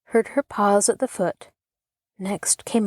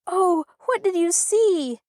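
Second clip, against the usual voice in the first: much higher, begging eagerly; imploring; 11 semitones higher than usual. A narrator's reading. Children pleading with Arthur, high eager begging. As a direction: plead with wide-eyed excitement. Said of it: "they implored".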